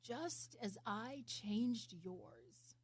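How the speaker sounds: slow, humble reply; modest, unhurried answer; humbly. Acted. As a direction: say it humbly and slowly. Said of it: "the man said humbly".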